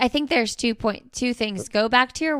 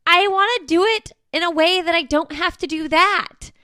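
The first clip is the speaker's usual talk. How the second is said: frustrated complaint; 8 semitones higher, 6 dB louder than usual. Retold or imitated. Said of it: "And I'm like".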